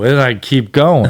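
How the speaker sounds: ordinary talk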